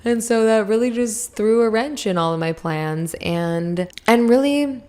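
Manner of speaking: talking around a lozenge; lozenge in mouth. Real, not acted. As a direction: speak with a lozenge in your mouth. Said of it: "sorry, I have a lozenge in my mouth".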